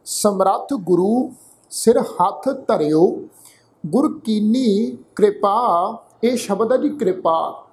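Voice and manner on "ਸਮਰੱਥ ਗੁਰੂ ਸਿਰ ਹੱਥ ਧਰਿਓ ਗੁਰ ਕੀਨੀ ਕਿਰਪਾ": slow, careful Gurbani recitation; model scripture reading. Shown as a demonstration. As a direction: recite slowly for learners to follow. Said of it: "ਇਹ ਪਾਠ ਉਚਾਰਨ ਕਰਦਾ".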